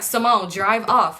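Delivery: slow, drawn-out mock urging of Simone. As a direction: drag it out, impatient but lightly voiced. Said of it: "They like".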